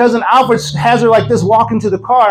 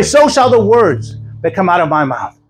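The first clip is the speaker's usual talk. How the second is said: scripture recitation; 3 semitones higher than usual. Acted. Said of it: "The Bible says this".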